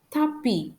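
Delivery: tapis said "ta-pee", no S; silent final S. Shown as a demonstration. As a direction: leave the S off tapis. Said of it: "I don't pronounce the letter S".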